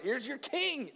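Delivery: quiet echo of the line. A narrator's reading. Repeated after comment.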